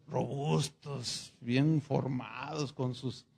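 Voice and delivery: plain reading voice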